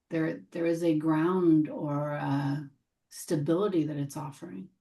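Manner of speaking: gentle meditation guide with long pauses; guided meditation. Real, not acted. Teacher helping the group arrive together, guided meditation voice. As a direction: lead them into settling, unhurried between phrases.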